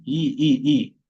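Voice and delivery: "I" as a clean ee, repeated; pure I vowel. Shown as a demonstration. Teacher isolating the sound, repeated "I" as ee. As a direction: repeat "I" as a plain Portuguese vowel. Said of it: "sonido de una I normal".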